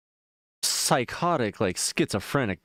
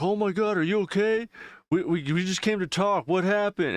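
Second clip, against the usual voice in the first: high-pitched imitation of a concerned dad; retold worried dad; 10 semitones higher than usual. Dad to the man sitting there, mock worried. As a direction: act out a dad's alarmed questions.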